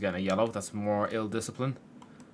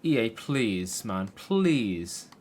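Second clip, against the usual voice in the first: exasperated plea; 3 dB louder, much slower than usual. Real, not acted. Begging the game maker.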